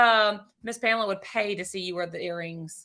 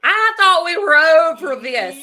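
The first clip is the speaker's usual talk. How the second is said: mock crying; 8 semitones higher, 9 dB louder, slower than usual. Mock hurt at viewer comment.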